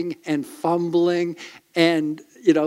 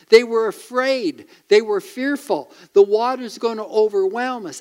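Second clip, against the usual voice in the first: rising preaching; 5 semitones higher than usual. Real, not acted. Preaching climax, raised.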